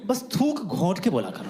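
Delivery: slow, drawn-out parental advice; lightly voiced parent. Parent advising child on unclear speech, slow advice. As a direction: spell it out slowly, like a parent. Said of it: "अपने parents से पूछा था".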